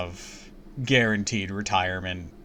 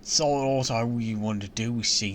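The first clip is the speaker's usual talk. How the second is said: put-on valley girl; 9 dB quieter than usual. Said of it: "How do I have a Valley Girl accent".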